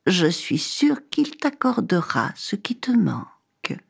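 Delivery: hushed hermit whisper. Acted. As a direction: breathe it like a secret blessing. Hermit confides a secret promise.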